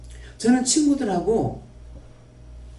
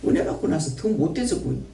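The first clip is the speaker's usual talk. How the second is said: exasperated quote; 2 semitones higher, slower than usual. Retold or imitated. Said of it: "이러니까".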